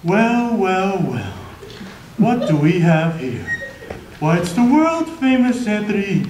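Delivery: lightly voiced gloating villain; mock villain greeting. Talking hand greets its famous foe, lightly gloating. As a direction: draw out the taunting welcome.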